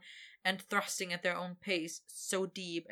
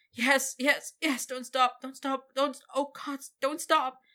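much higher, louder ecstatic wail; 7 semitones higher, 7 dB louder than usual. Acted. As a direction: cry out, losing control. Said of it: "he wailed".

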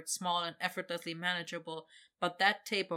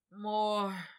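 slurring; 3 semitones higher than usual. Acted. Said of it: "he slurred".

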